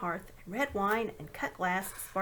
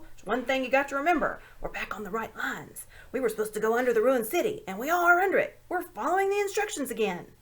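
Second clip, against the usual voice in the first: loud, higher, doleful marsh creature urging courage; gloomy Marshwiggle; 4 semitones higher, 6 dB louder than usual. A narrator's reading. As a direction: boom out a glum pep talk, pitched up. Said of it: "said the Marshwiggle".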